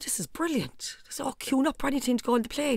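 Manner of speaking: soft hushed whisper; mother pleased at the quiet airport; whispered delight. Retold or imitated. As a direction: breathe it out happily under your breath.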